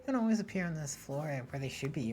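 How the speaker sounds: chipper high phone voice; bright cheerful helper voice; Loop. Acted. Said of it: "think about talking to Loop".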